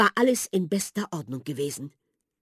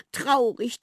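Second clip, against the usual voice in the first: sad; 6 semitones higher than usual. A narrator's reading. Mouse answers about children.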